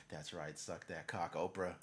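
low, quiet leering mutter; low gloating voice. Retold or imitated. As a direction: gloat under your breath. Imagined hacker gloating.

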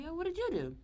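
high, bright put-on ask; asking her cellmate what she did; curious question. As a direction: pitch way up, nosy. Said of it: "So I'm like".

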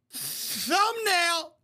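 high, drawn-out exclamation; gleeful call-out. Pretend. YouTuber spots a frame for the video, high gleeful call-out. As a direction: sing it out high like an announcement. Calling out a freeze-frame moment.

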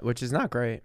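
real, accidental crack. Real, not acted. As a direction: voice cracks mid-phrase. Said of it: "Your voice cracked".

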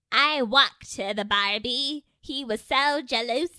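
a playful attempt at Scottish that barely lands; bad Scottish accent. Showing friends her Scottish accent, a hammed-up bad Scottish. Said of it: "that was my Scottish".

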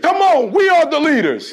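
loud rallying call; leading the crowd in a chant; call and response. Real, not acted. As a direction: shout it so they echo back. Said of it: "Say it with me".

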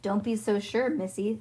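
lightly drawled cowboy line; a hint of cowboy swagger. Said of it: "You sound like a cowboy".

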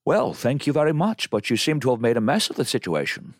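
lilting mock Scottish accent; dry Scottish scolding; Sean Connery. Film father answering his rescuer, Scottish-accented reproof. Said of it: "Do you do a Connery?".

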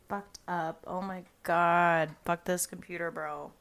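exasperated, drawn-out oh my god; fed up with the broken computer; slow exasperated groan; frustrated groan. Real, not acted. Angry at lost recording.

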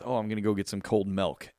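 imitating dad, "milk" as "melk"; "milk" with an E vowel; father's pronunciation. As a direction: retell it with "milk" rhyming with "elk". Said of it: "He says".

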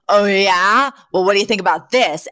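retold defiant challenge, mildly indignant; outraged defiance. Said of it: "who is outraged that his mother".

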